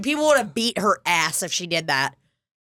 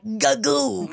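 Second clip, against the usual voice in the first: Rafe's punchline sound; 2 semitones higher than usual. Retold or imitated. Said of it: "and then he'll be like".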